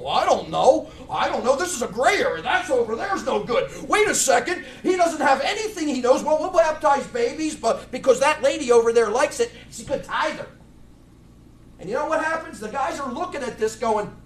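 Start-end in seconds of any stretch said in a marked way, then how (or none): 0.0-10.5 hammed-up dithering preacher, getting louder; mock the waffling pastor, rising to a shout; mocking a clueless preacher. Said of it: "there's a guy up there going".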